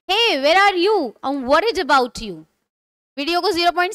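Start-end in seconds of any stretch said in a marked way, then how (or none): 0.1-2.4 slow, clear teacher reading of a worried question; slow model lines. Shown as a demonstration. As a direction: read it slowly for the class. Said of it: "repeat after me with the correct pronunciation". (धीमे, साफ़ उच्चारण में)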